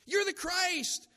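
high, slow, loud declaration; Peter's proclamation. Retold or imitated. Peter declaring to Jesus, high loud and slow. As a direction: proclaim it with wide-eyed certainty. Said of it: "Peter said".

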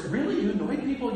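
imitated sarcastic disbelief, lifted in pitch; mock sarcasm. Congregation answering the preacher's confession, mock sarcasm. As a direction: put on a doubting congregation's sarcasm. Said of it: "stop with the sarcasm".

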